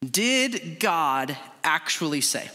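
slow, deliberate serpent question; serpent's question. Acted. Repeating the serpent's question for focus, slowly and deliberately. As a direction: weigh every word, planting doubt. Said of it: "It's gonna be our focus this morning".

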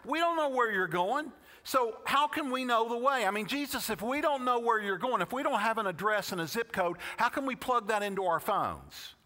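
Thomas's question. Retold or imitated. Preacher voices Thomas's doubting question.

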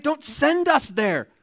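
high, slow, begging demon whine; pleading demon. Acted. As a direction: beg like a frightened demon.

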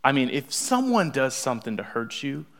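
normal talking voice

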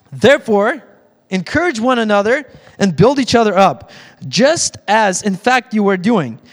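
emphatic, measured public Bible reading; scripture reading. Acted. Pastor reads the closing scripture to the congregation, emphatic scripture reading. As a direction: read it out firmly to a congregation.

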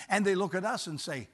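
ordinary delivery

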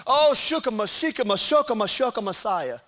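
mock fervent prayer. Mocking a lottery buyer praying over a ticket, hammed-up. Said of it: "ever shikamashia'd over a lottery ticket".

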